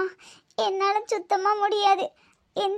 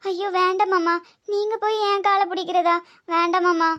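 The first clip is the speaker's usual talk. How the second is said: louder flustered refusal; embarrassed protest; 4 dB louder than usual. Acted. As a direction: push back, mortified, rising to a cry. Refuses father-in-law touching her feet.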